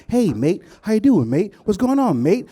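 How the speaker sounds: lilting, friendly "mate" greetings; practising mates in the mirror, upbeat and bouncy; happy rehearsed greeting. Acted. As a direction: rehearse a cheery Aussie hello. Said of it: "I'm gonna rehearse my mates".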